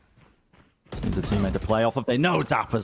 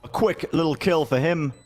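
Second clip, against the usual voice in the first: esports caster; 7 semitones higher than usual. Acted. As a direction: build to the big shot. Live play-by-play, clutch moment.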